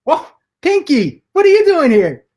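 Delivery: high startled whoa; startled high exclamation; surprised. Acted. Surprised anchor greets intruder.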